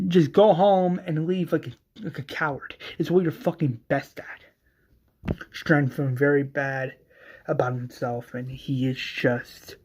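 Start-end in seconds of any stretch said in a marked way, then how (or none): 0.1-5.3 raised start, dropping off in disgust; bitter acted parting shot; scornful dismissal. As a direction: send the coward away angrily.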